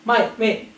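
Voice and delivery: "Mate, mate" as "mite, mek"; English then Scottish mate. Shown as a demonstration. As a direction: switch "Mate, mate" from eye to ay. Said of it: "say it with me".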